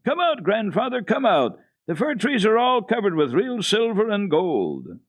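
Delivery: put-on high, loud, thrilled child's cry; a little girl shouting with joy; delighted exclaiming. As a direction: call him out in pure delight at the snow. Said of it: "jumped up and down with delight and kept exclaiming".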